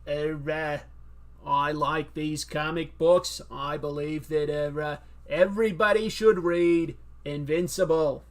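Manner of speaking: a hint of a Kennedy speech with hesitations; mild JFK speech-giver voice; JFK impression. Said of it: "J F K impression?".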